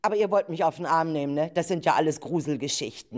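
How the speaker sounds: fast, joking doubt; teasing disbelief. Acted. Anja teasingly doubts the kids' ghost stories. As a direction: brush them off with a wink.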